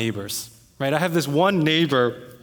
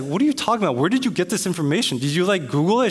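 higher-pitched, challenging disbelief; incredulous questioning; 3 semitones higher, faster than usual. Retold or imitated. Homeowner challenging neighbor on her information, incredulous. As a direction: question it like you can't believe it.

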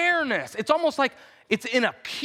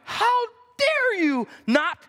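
enraged king; 4 semitones higher than usual. Retold or imitated. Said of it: "is contorted with rage".

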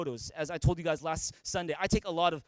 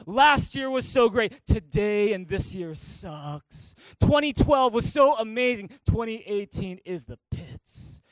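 mock nostalgic whine; 6 dB louder, slower than usual. Pastor parodies churchgoers stuck in the past, hammed-up whine. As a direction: ham up a moaner pining for the good years.

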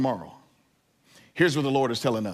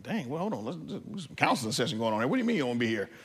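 hushed dad reply; 7 dB quieter, faster than usual. Retold or imitated. Dad answering crying girls.

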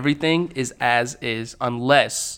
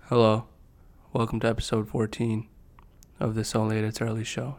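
low-key intro; 2 semitones lower, 5 dB quieter than usual. Shown as a demonstration. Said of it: "imagine I did it like this".

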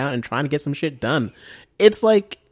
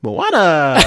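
put-on excited girl; 6 semitones higher, 6 dB louder than usual. Forty percent of them were like.

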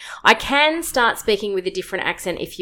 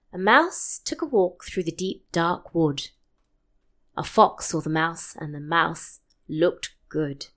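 reading the Gruffalo in a lightly British accent, slow at the end; British storytelling accent; 5 dB quieter, slower than usual. Shown as a demonstration. Mum reads the Gruffalo to friends on request, in a light British storytelling accent. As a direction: channel a British narrator reading a picture book, slow on the last line. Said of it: "give us a bit of Gruffalo then".

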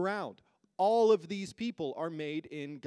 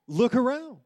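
louder command; 6 semitones higher, 7 dB louder than usual. Shown as a demonstration. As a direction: Look around said much louder and higher, insisting. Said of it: "not a single one of you looked around".

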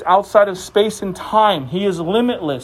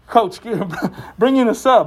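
tired player; 2 semitones higher than usual. Pretend.

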